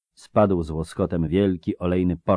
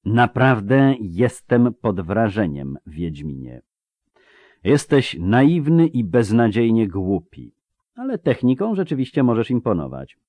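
calm, resonant; 3 semitones higher, 3 dB louder than usual. Acted. Sorcerer belittling the witcher, calm and resonant. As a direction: stretch the words with measured, sonorous assurance. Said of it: "powiedział spokojnie i dźwięcznie".

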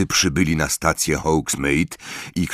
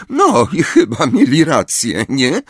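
higher, louder scoff; scornful snort; 7 semitones higher, 4 dB louder than usual. A narrator's reading. Hermione scoffing at Luna's beliefs, snorting. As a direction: throw it back with disdain. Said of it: "prychnęła Hermiona".

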